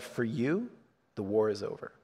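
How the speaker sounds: hushed, solemn delivery of soldiers' words; quiet solemn quote. Retold or imitated. Pastor quietly quoting the soldiers to the congregation, hushed and solemn. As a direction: let the words land softly, like a release. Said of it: "They said".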